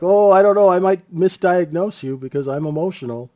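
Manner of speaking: a lightly hammed-up doctor making excuses; mock emotional doctor. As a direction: whine it like a flustered doctor. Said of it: "they're like".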